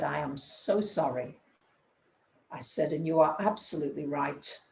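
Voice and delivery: tearful apology. Retold or imitated. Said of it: "I just burst into tears".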